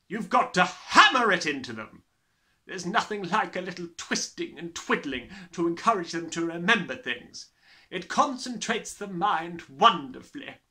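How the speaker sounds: loud, high, booming tyrant voice; bullying headmistress. Acted. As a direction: gloat like a brutal headmistress. Trunchbull's voice held throughout.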